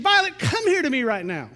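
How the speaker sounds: firm dad calling his daughter; a dad's sharp summons; stern commanding tone. Retold or imitated. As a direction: call her in like she's in trouble. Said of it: "she had perceived in my tone".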